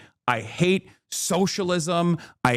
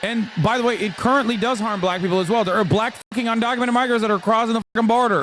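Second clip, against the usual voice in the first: heated rant; 5 semitones higher, faster than usual. Real, not acted. Streamer rants at his chat, rising and rushed. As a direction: pitch climbing, words rushing out faster.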